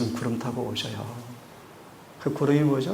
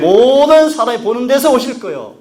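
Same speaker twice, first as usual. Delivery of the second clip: louder, higher impassioned sermon; full-force preaching; 10 semitones higher, 15 dB louder than usual. Real, not acted. Preacher to congregation, loud impassioned preaching. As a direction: drive the question home.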